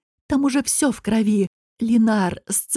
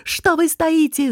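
higher, slow, demanding yell; furious at them for standing still; angry shout; 6 semitones higher, slower than usual. A narrator's reading. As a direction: shout at the frozen crowd. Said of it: "закричал он".

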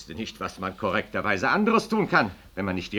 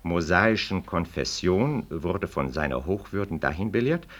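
measured, official reading of a document; formal reading aloud. Acted. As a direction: read the petition out like an official notice. Reads interpellation aloud.

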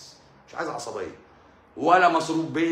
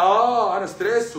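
higher and louder, a put-on complaining husband; hammed-up husband complaining of stress; mock stressed husband; 6 semitones higher, 4 dB louder than usual. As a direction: whine that you're stressed. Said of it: "فتخرج بقى".

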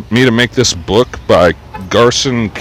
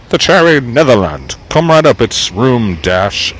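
1 audio book voice; 3 semitones higher than usual. Acted. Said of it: "I could have done that in my audio voice".

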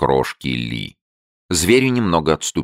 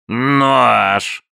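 higher, louder creature bark; 11 semitones higher, 5 dB louder than usual. A narrator's reading. The newt barks at Abe. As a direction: bark the single word. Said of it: "пролаял зверь".

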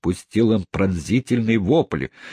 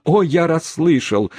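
high, louder eager protest; 10 semitones higher, 3 dB louder than usual. Acted. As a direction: insist joyfully that he heard. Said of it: "возразил мистер Тапмен". (радостное пылкое возражение)

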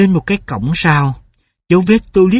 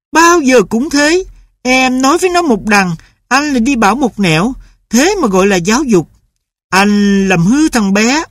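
higher, angry scolding; mother shouting; 8 semitones higher than usual. A narrator's reading. Mother scolds husband for spoiling the boy, higher and angry. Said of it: "Bà mẹ lúc này đã lại la lên".

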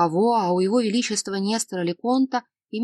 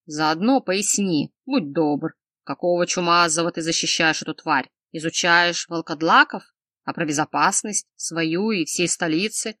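angry scolding; 2 semitones lower than usual. Acted. Angry king scolding the healer.

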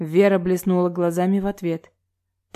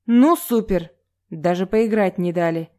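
a player killed first complaining to the host, indignant; 3 dB louder than usual. Acted. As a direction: complain loudly that you got knocked out. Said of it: "Совсем не наигранно возмутилась Соня".

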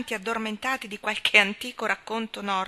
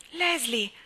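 startled, raised-pitch call of a name; astonished exclamation; 5 semitones higher, 4 dB louder than usual. A narrator's reading. Anna runs into her friend on the misty shore, astonished. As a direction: call out in surprise. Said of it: "esclamò Anna stupita".

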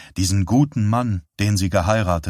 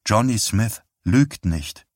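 slower, each word set down flatly; slow insistent repeat. Acted. Wife insisting to her husband, slow and toneless. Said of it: "wiederholte sie".

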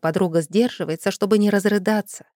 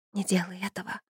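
much softer frightened plea; whisper; 9 dB quieter than usual. A narrator's reading. Yulia begs her friend not to curse, soft plea. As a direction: hush it, begging her to stop. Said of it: "прошептала она".

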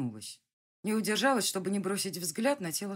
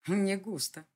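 laughing; 4 semitones higher, 3 dB louder, slower than usual. A narrator's reading. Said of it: "рассмеялся Дэвид".

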